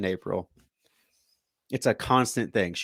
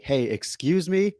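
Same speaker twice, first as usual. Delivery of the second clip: stern hey excuse me; 5 semitones higher, slower than usual. Retold or imitated. Confronting daughter in hallway.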